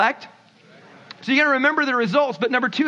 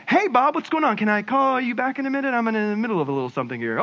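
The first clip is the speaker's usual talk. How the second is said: suddenly friendly; faster than usual. Acted. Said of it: "go from livid and angry and mad to".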